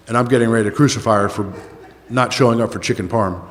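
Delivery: chuckling through the words; a laugh breaks into the line; laughing at himself. Real, not acted. Laughing at himself over his own overreaction to a missed dinner.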